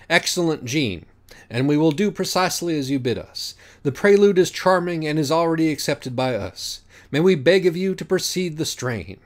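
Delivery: lightly voiced solemn judge reciting; pompous judge Minos. Minos opening the trial, lofty and formal.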